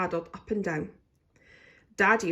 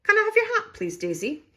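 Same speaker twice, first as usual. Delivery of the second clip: coaxing mother; 6 dB louder than usual. A narrator's reading. Mother voiced asking.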